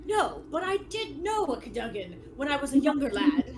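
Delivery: lively knightly character voice, key words stretched; theatrical duelist telling tales; reminiscing old knight. Acted. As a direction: relish the memory of an old rival. Game master plays the skeleton knight.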